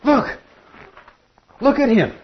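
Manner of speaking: God showing off His redeemed people to the angels; proud God. Acted. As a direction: point him out to the whole court, thrilled. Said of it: "God is saying to the watching angels".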